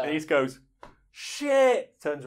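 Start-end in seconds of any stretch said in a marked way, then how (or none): 1.1-2.0 high, loud sudden cry of shit; mock panicked shout. Gunman realising the trick, a loud high mock shout. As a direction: yelp it out as the trap springs.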